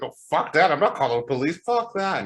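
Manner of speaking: high, dismissive mock crowd voice; imitating crowd. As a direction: wave it off like the partygoers. Imitating crowd refusing police.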